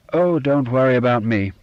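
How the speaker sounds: a touch wild and overeager; rather wildly. Acted. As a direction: brush the offer off in a slight fluster. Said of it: "Alec said rather wildly".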